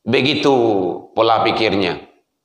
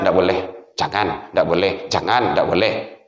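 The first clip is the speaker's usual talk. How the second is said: stern judges refusing; 12 semitones lower, 6 dB quieter than usual. Acted. Judges ruling in dog's trial.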